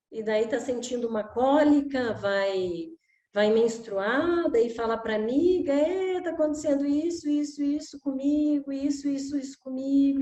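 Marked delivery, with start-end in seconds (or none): 5.7-10.2 put-on complaining girl.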